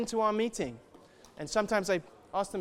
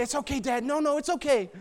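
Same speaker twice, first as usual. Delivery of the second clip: lightly voiced children; 6 semitones higher than usual. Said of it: "And they say".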